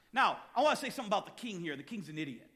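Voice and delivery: amused aside. Real, not acted. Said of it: "I got that off my chest".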